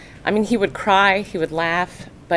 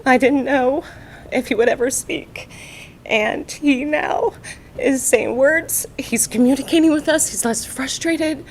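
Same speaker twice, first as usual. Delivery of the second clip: tearful; 5 semitones higher than usual. Real, not acted. Mother telling the audience how her son began to speak, close to tears. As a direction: push the words out through tears. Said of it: "I get so emotional".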